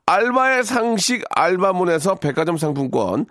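brisk sponsor announcer read. Acted. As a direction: rattle off the prizes like an ad. Reads sponsor gift list.

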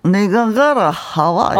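낮게 느릿한 부산 사투리 대사; 영화 속 깡패처럼. Shown as a demonstration. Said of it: "너무 바로 이 톤". (친구 영화 대사 톤)

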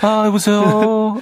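high, slow polished hello; polite Seoul phone voice. Retold or imitated. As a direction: answer like a prim Seoulite. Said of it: "갑자기 서울 사람".

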